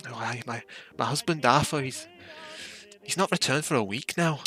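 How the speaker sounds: anxious Scottish woman, voice lifting; a wife fretting over her missing husband; a hint of a worried Scottish wife.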